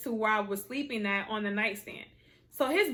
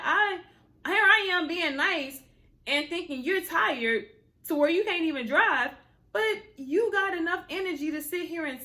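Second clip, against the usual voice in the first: exasperated rant; 5 semitones higher than usual. Retold or imitated. Ranting at boyfriend texting ex.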